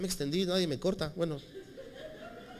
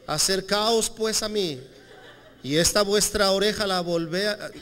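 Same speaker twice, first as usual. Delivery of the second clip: mock stiff old-Spanish Jesus; 2 semitones higher than usual. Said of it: "¿O cómo se lo imaginan?".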